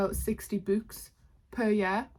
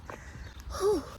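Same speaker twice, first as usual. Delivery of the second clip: breathless gasp; 11 semitones higher, 4 dB quieter than usual. Real, not acted. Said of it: "Sorry, I'm so out of breath".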